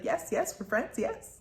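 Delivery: high, sly creature whisper on yes yes; lightly voiced spider creature; mock spider voice. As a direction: ham up the spider's eager hiss. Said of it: "I don't even know what kind of accent to put with it".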